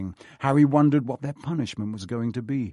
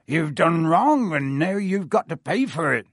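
fierce; 5 semitones higher, 4 dB louder than usual. Acted. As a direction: lay down the law. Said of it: "said Hagrid fiercely".

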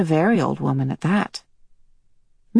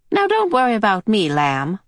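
higher, fond; lightly voiced old woman, soothing; 4 semitones higher than usual. Mrs Watson reassuring Mrs Murray, lightly voiced. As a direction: pat her on the head with words.

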